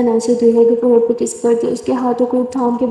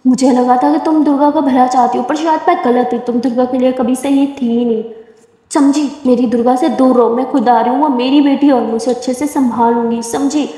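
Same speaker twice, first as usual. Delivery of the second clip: mother scolding. Acted. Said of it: "Durga की मम्मा चिल्ला देती है".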